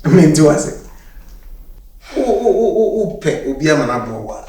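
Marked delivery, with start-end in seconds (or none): 2.2-4.4 laughing. Acted. Laughing at partner's claim.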